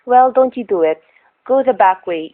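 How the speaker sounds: anxious diner owner warning the driver; urgent warning. Acted. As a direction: stop him from taking that road. Urgent warning about the fire.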